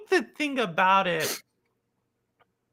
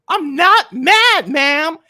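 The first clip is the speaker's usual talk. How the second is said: retold insistent driver; 3 semitones higher, 10 dB louder, much slower than usual. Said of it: "He was like this entire time".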